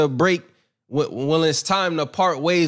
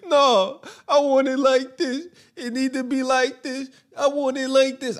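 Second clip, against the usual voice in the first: higher, insistent put-on voice; mock insistent voice; 7 semitones higher than usual. Mocking people who demand an outcome, higher and insistent. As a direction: push it up high like a demanding child. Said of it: "I don't have to speak from".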